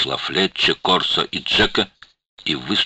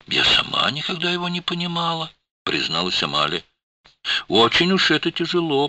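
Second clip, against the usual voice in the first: put-on weary older woman; 13 semitones higher, 4 dB louder than usual. A narrator's reading. Amalia voiced as a character.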